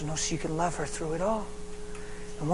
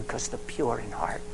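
slow hushed whisper; 5 semitones lower, 6 dB quieter, slower than usual. Real, not acted. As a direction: drop to a secret whisper. Preacher drops to whisper.

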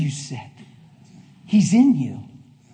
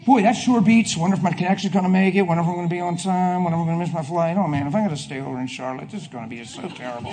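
self-absorbed traveller; 3 semitones lower, 6 dB quieter, faster than usual. Retold or imitated. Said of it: "You just sit in the plane".

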